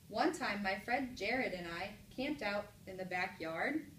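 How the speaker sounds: slow, with "backyard" rising as a question; question reading. Shown as a demonstration. Teacher tries another mark on the same sentence, rising question. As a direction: turn it into a question by lifting "backyard". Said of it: "use a different type of punctuation mark".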